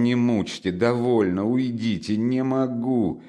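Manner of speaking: fed-up, drawing out the final refusal; irritable. Acted. Brother sending his family away, irritably. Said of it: "раздражительно повторял он".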